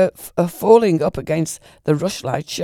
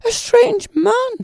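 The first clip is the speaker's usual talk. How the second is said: very high, slow, louder screech; 6 dB louder, slower than usual. A narrator's reading. Lady cries out about the stranger, slow high screech. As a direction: draw the words out in a panicked screech. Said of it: "screeched the lady".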